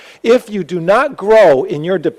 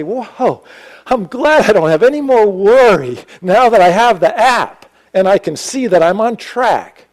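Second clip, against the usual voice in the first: higher, louder mock sigh of relief; 5 semitones higher, 4 dB louder than usual. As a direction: fake relief at the app. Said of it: "Do you suddenly say".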